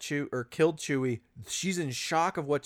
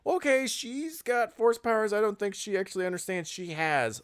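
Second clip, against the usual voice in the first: higher-pitched mock realisation; imitated shock; 6 semitones higher than usual. Villain stunned by her force powers, imitated shock. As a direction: voice his stunned thought, pitched up. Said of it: "the shock on his face of".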